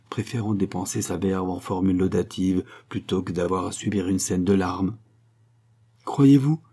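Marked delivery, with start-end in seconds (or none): 6.0-6.6 unsure voice. Acted. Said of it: "d'une voix mal assurée".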